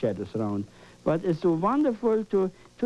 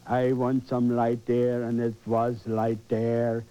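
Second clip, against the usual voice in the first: grand commanding creator; 6 semitones lower than usual. Shown as a demonstration. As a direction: speak like a god calling light down. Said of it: "Talk like that".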